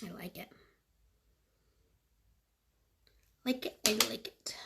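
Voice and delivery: soft whispered approval to herself; quiet unvoiced whisper. Real, not acted. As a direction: murmur it almost silently, pleased. Whispering to herself about orange look.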